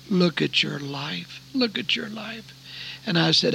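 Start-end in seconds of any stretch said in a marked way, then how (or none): 0.1-1.4 slow, measured motherly plea; slow admonition. Retold or imitated. Mother's words, first take. 1.5-2.5 softer pleading echo. Retold or imitated. Mother's words repeated, higher, softer.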